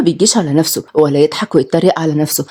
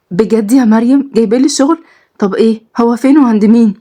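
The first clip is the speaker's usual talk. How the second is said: put-on lively young women. Two friends bickering over a new job, lightly raised and lively. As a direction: trade quick lines like close friends. Girls' quick back-and-forth.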